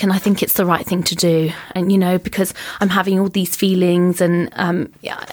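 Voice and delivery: lightly put-on non-English accent; retold plea in a mild foreign accent; imitated non-English accent. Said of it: "he's not English, right".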